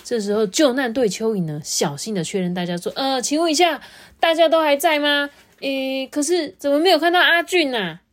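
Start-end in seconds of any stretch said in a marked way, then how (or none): 2.9-8.0 high, careful voice checking on everyone; worried rescue worm. Acted. Rescue worm checking the villagers, high and worried. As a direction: count heads, growing concerned.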